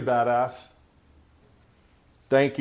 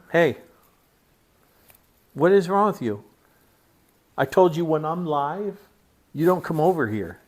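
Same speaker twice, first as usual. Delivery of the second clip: scolding; 3 semitones higher than usual. Real, not acted. Owner scolding his dog during the live stream, sharp. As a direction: tell the dog off firmly.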